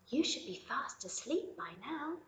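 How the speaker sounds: lightly voiced mother checking on her bunny; gentle mother rabbit. Mother Rabbit softly asks Lily if she is awake.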